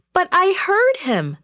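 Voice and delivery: put-on high-pitched girlish objection; insistent protest. A narrator's reading. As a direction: plead to be believed. Disbelieved servant girl protests.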